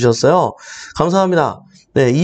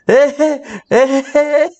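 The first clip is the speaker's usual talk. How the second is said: mother's dismayed groan; 8 semitones higher, much slower than usual. Retold or imitated. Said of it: "아세요, 여러분?".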